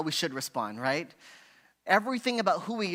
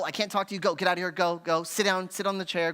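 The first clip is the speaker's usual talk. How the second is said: louder acted sending-away orders; stern timeout; 5 dB louder than usual. Parent sending child to timeout, louder acted stern commands. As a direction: banish the child, curt and loud. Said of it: "A timeout is go".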